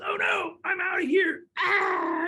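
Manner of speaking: high, squealed storybook fright; hammed-up scared snake; mock panic. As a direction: cry out in pretend alarm and flee.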